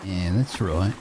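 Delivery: hammy Aussie put-on voice; mock Australian accent. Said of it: "I'll stop talking like that".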